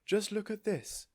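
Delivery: high, slow, loud; excited. A narrator's reading. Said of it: "she was shouting".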